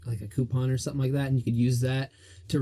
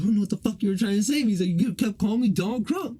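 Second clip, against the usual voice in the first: fast, higher mock indignant whine; lightly voiced annoyed Mikey; imitating a confused friend; 6 semitones higher than usual. Retelling what Mikey said after class, mock indignant. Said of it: "He's like, he's like".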